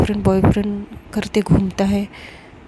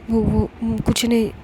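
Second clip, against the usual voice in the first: slow, faltering, a touch of fear; mildly shaken halting reply; hesitant stammer; slower than usual. Acted. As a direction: stumble over each word, barely getting it out. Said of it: "Mishka फिर से हक करती".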